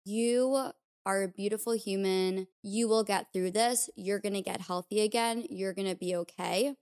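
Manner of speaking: gentle, reassuring words to yourself; kind self-talk. Retold or imitated. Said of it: "Instead of being like".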